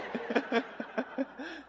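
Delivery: breaking into laughter at his own story; laughing after punchline. Real, not acted.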